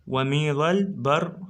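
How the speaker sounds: slowly, syllable by syllable; slow scansion reading. Shown as a demonstration. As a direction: read it out slowly for the class. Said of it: "اقراها". (قراءة عروضية بطيئة)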